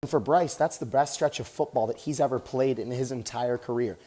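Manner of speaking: talking while jogging on a treadmill; a little winded mid-run; while running. Real, not acted. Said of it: "Just getting some cardio in right now".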